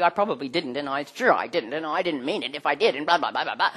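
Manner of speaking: excuse-making. Acted. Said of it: "That's an excuse".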